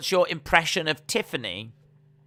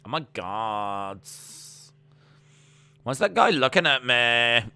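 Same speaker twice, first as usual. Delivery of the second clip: go-to modern female voice; 3 dB louder than usual. Acted. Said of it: "my pretty standard go-to modern female voice".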